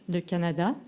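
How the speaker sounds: "Canada" in French, accented on its last syllable; French third-syllable stress. Shown as a demonstration. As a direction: say "le Canada" the French way, leaning on the final "da". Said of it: "accent on the third syllable in French".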